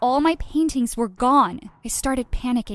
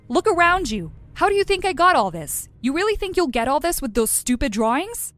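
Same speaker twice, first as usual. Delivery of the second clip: higher, louder, scornful mother; mother mocking her daughter's art, raised voice; mocking scold; 5 semitones higher, 3 dB louder than usual. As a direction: sneer down at the brat.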